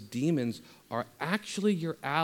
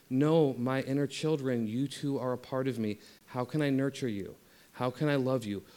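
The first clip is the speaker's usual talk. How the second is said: loving inner parent. Pretend. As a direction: soothe a child who's acting out. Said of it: "Become that loving inner parent".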